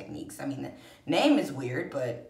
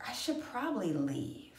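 hushed whisper to herself; 3 semitones higher, 7 dB quieter than usual. Retold or imitated. Waking at four in the roommate's room, whispering. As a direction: whisper so no one wakes.

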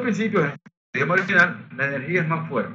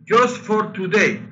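mock American teacher; 6 semitones higher, 4 dB louder than usual. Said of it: "un maestro de Estados Unidos y dice".

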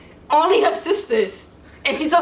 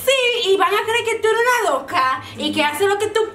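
mimicking mom; 4 semitones higher, faster than usual. Mom voiced in a story.

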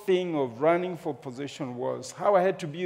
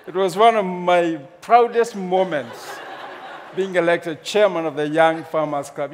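laughing; 2 semitones higher, 5 dB louder than usual. Real, not acted. Laughing at own proud memory.

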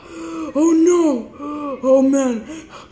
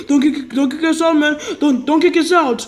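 pleading yell; 3 semitones higher, 5 dB louder than usual. Acted. Pleading not to be kicked out.

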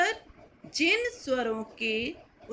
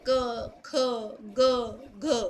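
letters said one by one, slowly; measured alphabet drill; slow recitation; much slower than usual. Shown as a demonstration. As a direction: spell out the letters in order, slow and clear. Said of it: "क्रमबद्ध एक serial order में लिखना".

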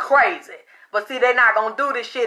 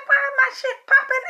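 much higher, laughing through the question; 13 semitones higher than usual. Retold or imitated. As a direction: ask it giggling in disbelief. Retold amused question.

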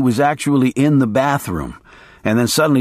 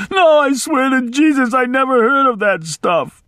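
put-on desperate old maid; 13 semitones higher than usual. A narrator's reading. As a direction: swear it high and desperate.

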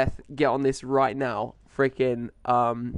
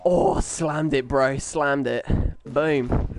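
excited; much slower than usual. Real, not acted. Triumphant after game kill.

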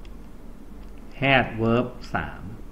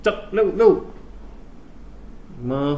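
urging; 7 semitones higher, much slower than usual. Real, not acted. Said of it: "hurry students".

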